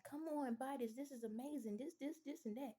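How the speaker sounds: a touch of hyped-up sales pitch; mock excitement. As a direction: sell it with put-on enthusiasm. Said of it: "now you got to be excited. Be like".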